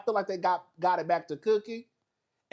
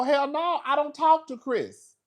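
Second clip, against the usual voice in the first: high, indignant denial; a hammed-up high protest; mock denial; 8 semitones higher, 4 dB louder than usual. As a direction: play the girl swearing she never talked. Acted girl denying.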